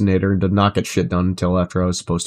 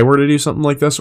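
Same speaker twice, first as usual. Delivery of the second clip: "so if I were to do something like this" with a rising, bouncy, higher tune; lively inflection; 6 semitones higher, faster than usual. Shown as a demonstration. Streamer shows chat the inflected way to talk, lively and higher. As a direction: swing the pitch up and down through the line. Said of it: "there is a large difference".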